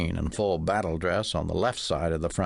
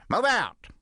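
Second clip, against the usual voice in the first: barked order; 13 semitones higher than usual. A narrator's reading. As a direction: bark it at the troops like a drill sergeant.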